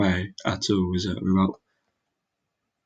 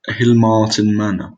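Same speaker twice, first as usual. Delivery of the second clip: Hilmartin Manor in a slow, lightly Welsh lilt; a hint of Welsh accent on Hilmartin, said a bit louder; 5 dB louder, slower than usual. Real, not acted. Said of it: "I just did a Welsh accent both times".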